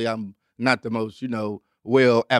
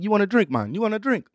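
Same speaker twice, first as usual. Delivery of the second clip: put-on a deliberately clumsy British accent; bad UK accent; 6 semitones higher than usual. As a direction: offer the drink in a terrible UK accent. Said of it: "I know my U K accent is terrible".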